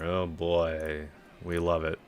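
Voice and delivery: dry, fake enthusiasm; deadpan mock delight; sarcastic. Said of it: "Super sarcasm there".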